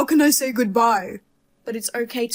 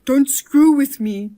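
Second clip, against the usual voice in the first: slow, louder, each word pressed; angry warning; 2 semitones higher, 5 dB louder, slower than usual. Acted. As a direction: lay down the law, fed up. Son fed up with mother's games.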